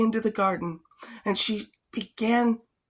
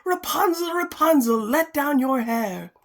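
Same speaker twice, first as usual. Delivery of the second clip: calling out; 5 semitones higher than usual. Acted. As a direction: call up to the tower. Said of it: "she would stand below and cry".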